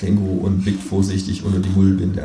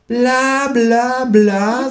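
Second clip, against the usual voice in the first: high, louder dismissive bla bla; bored kangaroo; 4 dB louder, much slower than usual. Acted. Kangaroo at home mocking the economist, high dismissive voice. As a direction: drone it out as the fed-up kangaroo. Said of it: "sagt das Känguru zu Hause".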